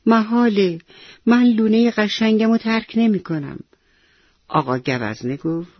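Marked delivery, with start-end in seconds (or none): 0.1-3.6 higher, sulky refusal from the offended parrot; indignant little parrot, pitched up; hurt and sulky. A narrator's reading. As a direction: pout out a stubborn no. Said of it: "با دلخوری گفت".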